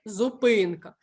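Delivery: "зупинка" with the middle И stressed and clear. Shown as a demonstration. Teacher showing the check word, stressed И in "зупинка". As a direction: let the И in "зупинка" be clearly heard. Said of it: "Чітко чути звук".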